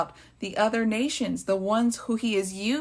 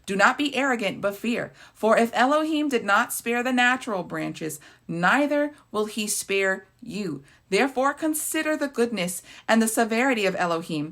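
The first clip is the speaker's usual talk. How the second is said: raised, measured scripture reading; reading scripture with a bit more voice; 3 semitones higher than usual. Acted. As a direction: proclaim the verse to the congregation. Reads scripture aloud.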